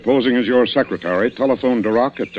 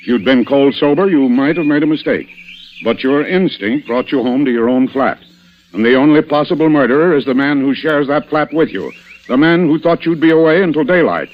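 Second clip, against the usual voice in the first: raised, forceful detective's summing-up; accusing revelation; 5 semitones higher, 4 dB louder than usual. Acted. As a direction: drive each point home toward the culprit. Inspector builds up to naming murderer.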